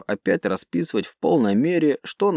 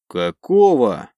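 slow loud disbelieving gasp; stunned disbelief; 5 dB louder, much slower than usual. Acted. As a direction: choke out the question in shock. Commander sees shots deflect.

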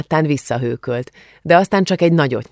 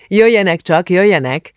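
Jöjjenek, jöjjenek! called out higher and louder; inviting call; 5 semitones higher, 5 dB louder than usual. A narrator's reading. Szidi néni warmly invites the girls into the shop. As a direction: beckon the guests in cheerfully. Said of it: "invitálta őket Szidi néni".

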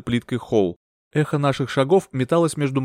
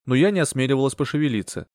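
ordinary delivery, nothing marked

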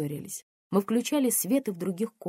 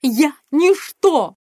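high, loud, slow scream; 9 semitones higher, 14 dB louder, much slower than usual. Acted. Mother screaming in despair at her daughter. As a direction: wail it out at full voice. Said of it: "кричала она".

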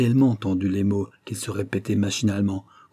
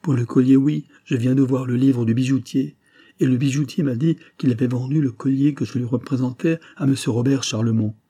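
pressing testimony in a raised voice; agitated insistence; 4 semitones higher, 4 dB louder than usual. Acted. Betrayed husband citing the jeweller to his friend, agitated. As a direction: insist on the proof, somewhat worked up.

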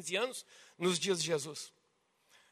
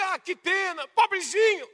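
mock pity; 4 semitones higher than usual. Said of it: "Só dizer".

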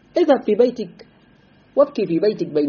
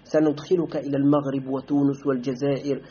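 softer, coaxing voice of a tempter; luring recruiter; 4 semitones lower, 5 dB quieter than usual. Retold or imitated. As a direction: lure the student in with sweet promises. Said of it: "يقول لك".

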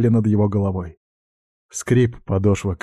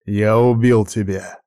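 angry. A narrator's reading. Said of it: "произнёс злой Томми".

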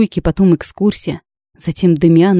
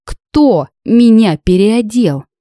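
shocked; 5 semitones higher, 4 dB louder, much slower than usual. A narrator's reading. Shocked realization, slow.

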